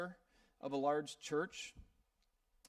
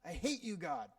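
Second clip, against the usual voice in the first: retold yell; 5 semitones higher than usual. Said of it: "he started to yell out".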